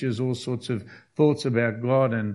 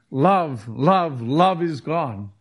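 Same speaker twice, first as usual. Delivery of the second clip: mock shout; 3 dB louder, much slower than usual. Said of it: "they weren't there shouting".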